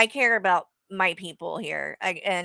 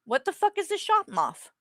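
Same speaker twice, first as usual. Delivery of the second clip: baffled repeat; 4 semitones higher than usual. Real, not acted. Baffled repeat of misheard clip words.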